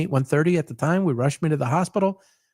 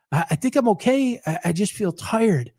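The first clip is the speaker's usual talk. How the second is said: timid reply; 4 semitones higher than usual. Retold or imitated. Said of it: "That's what I'm saying".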